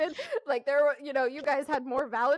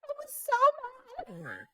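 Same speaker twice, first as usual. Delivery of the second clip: laughing; 10 semitones higher, slower than usual. Real, not acted. Laughing recalling frustration.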